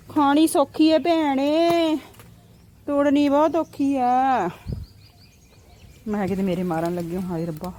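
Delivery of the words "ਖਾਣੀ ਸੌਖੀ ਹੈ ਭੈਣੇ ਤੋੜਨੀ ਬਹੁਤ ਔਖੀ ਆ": slow, high drawn-out lament; dramatic loud aunty. Acted. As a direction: stretch it out like a complaining aunty. (ਨਾਟਕੀ ਅੰਦਾਜ਼ 'ਚ ਹੌਲੀ ਹੌਲੀ ਸ਼ਿਕਾਇਤ)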